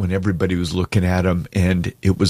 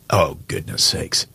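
choked up; 3 semitones lower, slower than usual. Real, not acted. Host overcome by memory, whispering through tears. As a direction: barely get the words out through tears. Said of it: "I'm crying".

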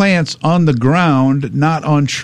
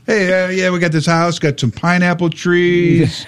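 put-on drunk real estate agent; 5 semitones higher than usual. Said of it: "Like a drunk real estate agent?".

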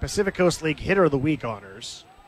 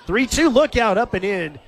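higher and louder, a quick startled call; sudden alarm; 7 semitones higher, 6 dB louder than usual. Real, not acted. Announcer to listeners as the pitch nears the batter, startled call. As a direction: yelp the warning as the pitch comes in tight.

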